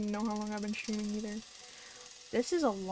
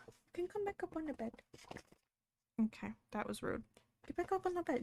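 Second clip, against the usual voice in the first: higher, soft pet-talk; coaxing the dog; 6 semitones higher, 4 dB quieter than usual. Real, not acted. Streamer coaxing her dog back onto the bed, higher.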